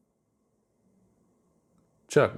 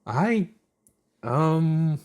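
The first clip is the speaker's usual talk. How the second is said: put-on flustered girl voice, high; 7 semitones higher than usual. A narrator's reading. Chuck flustered.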